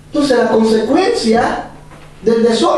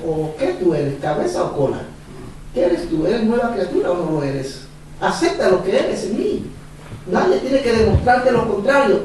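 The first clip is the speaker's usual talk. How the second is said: lower, softer, a solemn inner voice; voice of God; 4 semitones lower, 5 dB quieter than usual. Retold or imitated. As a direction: speak as God, gently correcting. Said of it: "Dios me dijo". (voz de Dios, grave y suave)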